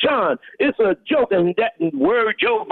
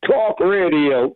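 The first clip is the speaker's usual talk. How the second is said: slow, lower attempt at New York "talk radio"; failed New York accent; 5 semitones lower, slower than usual. Shown as a demonstration. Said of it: "It's gotta be talk".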